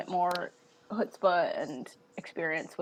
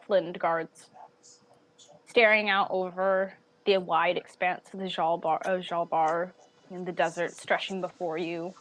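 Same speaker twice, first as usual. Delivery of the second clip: game master narration; 2 semitones lower than usual. Acted. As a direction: paint the scene for the players. GM narrates scene ending.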